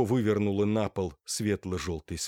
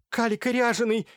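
much higher, louder sudden cry; sudden shout; 14 semitones higher, 5 dB louder than usual. A narrator's reading. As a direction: blurt it out, shrieking. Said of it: "внезапно закричала Марфуша".

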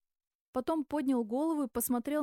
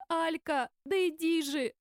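higher-pitched urgent call; exclamation; 5 semitones higher than usual. A narrator's reading. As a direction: call her over urgently, voice raised in pitch. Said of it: "воскликнула она". (взволнованное восклицание)

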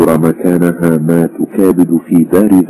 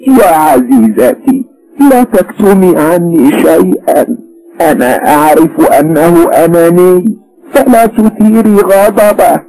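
tender; 13 semitones higher, 4 dB louder than usual. A narrator's reading. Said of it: "فبدا الحنان في رنات صوتها".

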